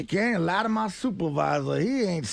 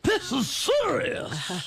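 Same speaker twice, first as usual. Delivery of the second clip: mock serious; 4 semitones higher, much slower than usual. Mock grave and slow.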